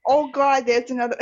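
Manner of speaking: put-on Brooklyn accent. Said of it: "walking up Brooklyn or something accent".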